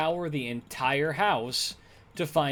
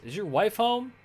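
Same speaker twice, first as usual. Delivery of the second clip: much higher, puzzled ask about the wife; mock startled "Is your wife home?"; startled question; 10 semitones higher than usual. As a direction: retell the electrician's startled question, pitched up high. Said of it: "he says".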